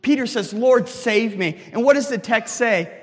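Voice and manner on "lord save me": slow, loud cry for rescue, drawn out; desperate plea. Retold or imitated. Peter sinking, crying out to the Lord: slow, loud plea. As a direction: beg to be saved from sinking, slowly.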